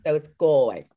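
Galway with a broad "gaw" first syllable, not "gal"; Galway, Irish way. Shown as a demonstration. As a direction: say Galway as "Gawl-way", clearly, as the right form. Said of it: "it sounds quite like Gael".

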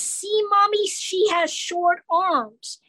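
höher, sehr langsam kindlich; a small kid pointing something out slowly; pointing child. Retold or imitated. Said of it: "I hear this kid's voice".

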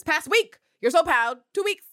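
loud, high, disbelieving; mock it in shrieking disbelief; incredulous mock. Real, not acted. Scoffing at Constantine's pride in Pam, loud disbelief.

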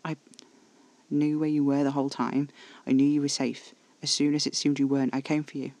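ordinary delivery

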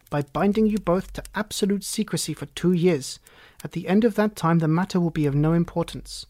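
lightly voiced solemn nobleman; a hint of a pompous Count; grave Bohemian Count. Count binding two listeners to secrecy, lightly voiced as grave.

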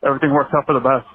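breathless from running; talking while running for breath. Real, not acted. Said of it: "so I'm out of breath".

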